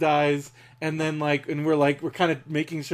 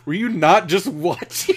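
snarky. Retold or imitated. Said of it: "the most snarkiest".

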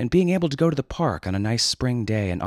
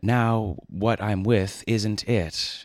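slow, lightly voiced old man; drawn-out doddering old-timer; Grandpa Simpson; slower than usual. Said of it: "Grandpa Simpson said it best once".

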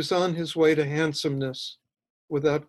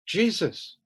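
higher-pitched startled exclamation; 5 semitones higher than usual. A narrator's reading. Mother finds a stranger in the bedroom doorway, startled. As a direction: blurt it in alarm, pitched up.

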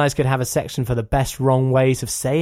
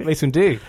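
"Windu" stressed on the last syllable; wrong name emphasis. Retold or imitated. Host repeating the gag, misplaced emphasis on "Windu". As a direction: echo the misstressed "Windu". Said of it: "putting the emphasis, he says, on the wrong part of names".

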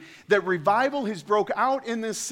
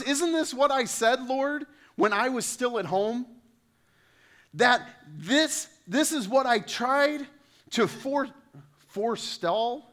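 whiny Jonah; 7 semitones higher than usual. Acted. Preacher voicing Jonah complaining to God.

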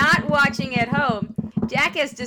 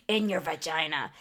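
My Pillow guy voice; 8 semitones lower, 7 dB quieter than usual. Retold or imitated. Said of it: "you brought out the pillow guy voice for".

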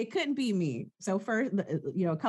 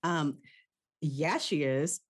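slow, drawn-out yes; lightly voiced Eve, slow and sure; Eve impression; much slower than usual. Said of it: "That's me doing an impression of Eve".

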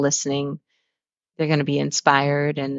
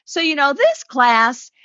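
1 teacher voice; 11 semitones higher, 3 dB louder than usual. Retold or imitated. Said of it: "sometimes I would do the".

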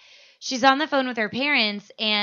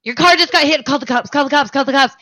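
mock panic; 4 semitones higher, 4 dB louder, faster than usual. Retelling panicked friend after crash.

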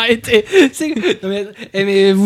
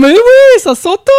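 sarcastic; 14 semitones higher, 5 dB louder, slower than usual. Real, not acted. Teasing her accent.

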